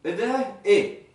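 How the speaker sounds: eh drawn out slowly; drawled Egyptian eh; Egyptian dialect. Shown as a demonstration. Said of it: "On dit".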